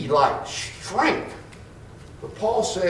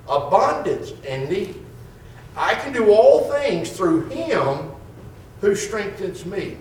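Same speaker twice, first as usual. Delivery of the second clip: scripture reading. Acted. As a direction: lean into each phrase of scripture. Reads Paul's letter aloud.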